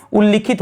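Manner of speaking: उल्लिखित as ul-li-khit; short i after doubled ल in उल्लिखित; corrected answer उल्लिखित with clear लि; लि vowel. Shown as a demonstration. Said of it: "क्या होना चाहिए?".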